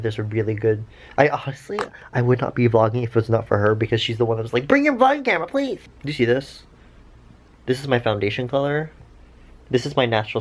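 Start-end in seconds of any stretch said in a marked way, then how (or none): 4.7-5.8 much higher whiny friend begging; pleading friend. Retold or imitated. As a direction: beg like an eager friend. Friend begging her to vlog.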